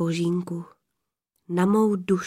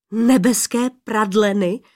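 disbelieving blurt; 4 dB louder than usual. Acted. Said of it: "vyhrkl nevěřícně Adam".

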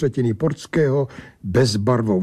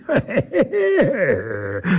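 a stranger's mocking laugh; rising mocking laugh; angel's laugh; 6 semitones higher than usual. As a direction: laugh like a smug odd creature. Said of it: "Smál se ten chlap".

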